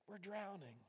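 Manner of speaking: high-pitched desperate cry; frantic plea. Acted. Disciples begging Jesus to save them, frantic. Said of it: "shook him like crazy".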